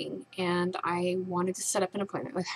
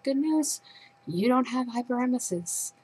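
higher, bright announcing tone, mocking the doctor; mock cheerful doctor; 6 semitones higher than usual. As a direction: deliver it like you are giving great news.

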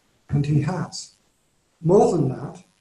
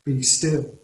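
gentle, unhurried invitation to rest; soft reminder to pause; quiet encouragement; 2 semitones lower than usual. Shown as a demonstration. Preacher quoting the psalm as gentle comfort, softly. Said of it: "We often quote these words in quiet tones".

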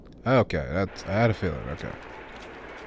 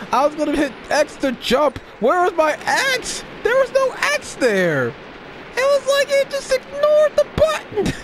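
frustrated rant; 13 semitones higher than usual. Real, not acted. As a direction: rant in disbelief at the game. Ranting at game, high and loud.

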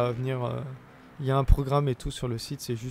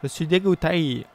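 mock disgust; 3 semitones higher, 6 dB louder than usual. Repeats disgust, louder second time.

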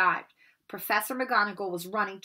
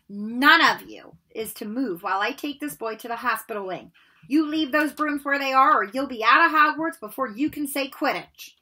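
raised, firm teacher's command; stern order; 4 semitones higher, 6 dB louder than usual. Acted. Madam Hooch warns the class to stay put, firm and loud. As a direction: lay down the law to the class.

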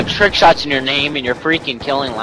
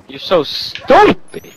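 higher, stretched-out "so stupid"; drawn-out mock scolding; 4 semitones higher, much slower than usual. Real, not acted. Teasing a friend over a game blunder, drawn-out scolding. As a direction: draw the insult out slowly, pitched up.

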